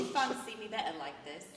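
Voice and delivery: lightly teasing British accent. Shown as a demonstration. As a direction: tease them in a British accent. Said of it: "Can you please talk like that".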